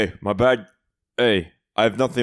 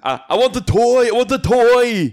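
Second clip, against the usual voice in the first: higher pleading toy demand; whiny kid voice; 9 semitones higher, 6 dB louder than usual. Retold or imitated. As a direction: beg for the toy like a child. Quoting the movie line.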